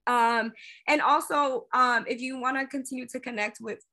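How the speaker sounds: hiccuping mid-sentence; with hiccups. Real, not acted. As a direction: talk through the hiccups. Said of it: "I have hiccups now".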